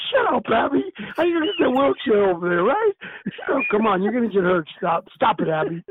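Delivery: loud, laughing protest; loudly protesting old friend. Retold or imitated. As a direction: tell him off while laughing. Teasing friend in wheelchair.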